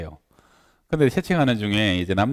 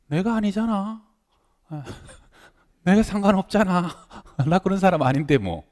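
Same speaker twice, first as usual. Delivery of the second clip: put-on higher child's voice, laughing it off; unbothered young daughter; 8 semitones higher than usual. Daughter tells mom the teasing means nothing, breezily unbothered. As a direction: imitate a carefree child, pitched up with chuckles.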